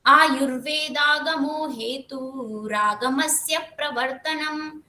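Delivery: slow Sanskrit chant, pausing after eight syllables; measured verse recitation; metered shloka recitation. Shown as a demonstration. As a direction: chant slowly, marking the eight-syllable pause. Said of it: "यहाँ पे आठ पूरे हो रहे हैं अब".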